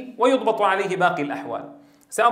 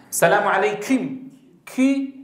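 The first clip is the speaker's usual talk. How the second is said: Turkish accent. Shown as a demonstration. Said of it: "عند إخواننا الأتراك".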